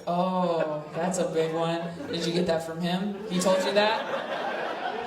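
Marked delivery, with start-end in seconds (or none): 3.3-5.0 drawn-out, incredulous "told"; slow disbelief. Real, not acted. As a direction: stretch it out in shock. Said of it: "You don't know how to comfort?".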